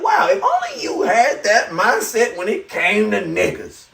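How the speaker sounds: mock outrage at the lady; sarcastic shout. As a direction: shout it back with biting sarcasm. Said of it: "I was like".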